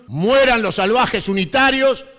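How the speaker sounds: rousing rally cry to the crowd; balcony speech. Acted. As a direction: call out the slogans to the square. Closing rally cries.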